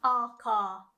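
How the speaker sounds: aka drawn out slowly with an English a; wrong English aka. Shown as a demonstration. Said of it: "So you don't wanna say aka".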